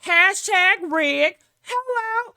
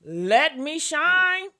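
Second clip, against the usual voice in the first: mocking quote; 2 semitones higher, slower than usual. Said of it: "and your response is".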